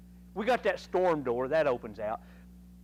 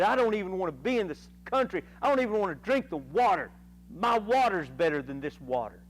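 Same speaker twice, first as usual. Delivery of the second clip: faster, louder, indignant griping; angry Naaman; 3 semitones higher, 3 dB louder than usual. Retold or imitated. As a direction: grumble fast like an offended guest. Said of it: "you gotta be mad".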